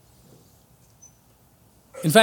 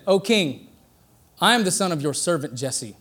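softer, humble, respectful reply to the king; bow your voice to the king; humble answer; 4 semitones lower, 6 dB quieter than usual. Retold or imitated. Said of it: "No, he said".

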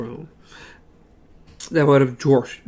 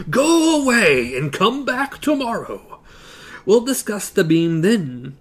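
wizard voice; 5 semitones higher than usual. Acted. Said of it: "cried the voice from the pipes".

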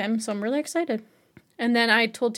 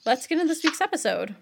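upbeat host announcement; confident host intro; 6 semitones higher, faster than usual. Shown as a demonstration. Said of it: "So you're gonna say".

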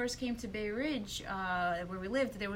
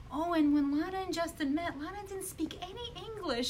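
imitating grandmother; 8 semitones higher than usual. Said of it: "the grandmother was like".

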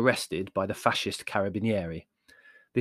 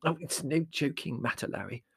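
mildly severe mother; understated motherly sternness; 4 semitones higher, 4 dB quieter than usual. Acted. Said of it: "said Mother severely".

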